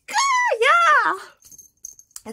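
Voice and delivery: high, loud wailing shout; flustered mock yell. Fan answering idol who called her out, flustered yell. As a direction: yelp it loud and high, caught out.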